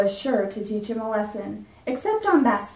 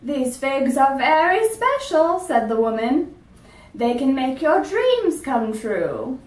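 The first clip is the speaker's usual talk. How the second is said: put-on mysterious old woman; 3 semitones higher than usual. Old woman promising the dentist magic figs. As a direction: draw it out like a secret.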